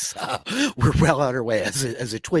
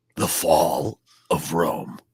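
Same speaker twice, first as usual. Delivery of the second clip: very low, deep, dramatic announcer voice; 7 semitones lower than usual. A host promoting the show's new series, in an announcer voice. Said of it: "You have a really good announcer voice".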